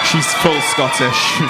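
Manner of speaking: slow, drawn-out mock heckle; slow mimicked call; imitating a heckler. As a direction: stretch each word like the audience member. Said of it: "I love someone went".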